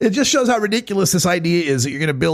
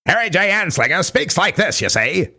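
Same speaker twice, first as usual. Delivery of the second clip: gangster voice; 3 semitones higher than usual. Retold or imitated. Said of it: "Anslinger voice that I'll have to work up".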